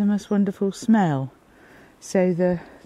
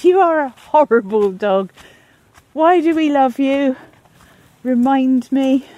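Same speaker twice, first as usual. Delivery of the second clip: mock scolding; 5 semitones higher, 7 dB louder than usual. Real, not acted. Scolding dog affectionately, loud.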